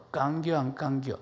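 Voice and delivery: brief Chungcheong punchline; Chungcheong dialect. Shown as a demonstration. Preacher shrinking a long standard sentence into Chungcheong dialect. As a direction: ask it like a Chungcheong local. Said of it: "충청도 말로".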